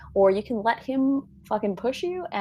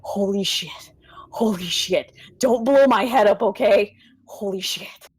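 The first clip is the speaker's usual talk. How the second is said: shaken; 4 dB louder than usual. Acted. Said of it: "he takes a deep breath".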